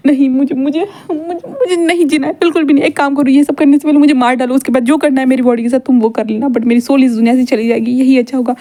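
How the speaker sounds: hammed-up childish crying. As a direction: whimper and plead like a crying kid. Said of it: "विंग बच्चों की तरह रो रहा था".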